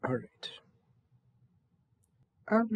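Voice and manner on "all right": soft whisper to himself; whispered aside. Acted. Servant whispering to himself by the bath, resigned whisper. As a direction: mutter it under your breath, resigned.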